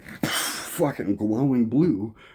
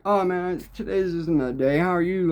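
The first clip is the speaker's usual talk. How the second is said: cheerful reply; 9 semitones higher than usual. Retold or imitated. He replies cheerfully to stranger.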